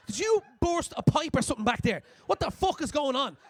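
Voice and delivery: loud, high, alarmed friend shouting into the laneway; alarmed yell. Retold or imitated. Friend yelling at you from the laneway, alarmed. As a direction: yell it like she's horrified.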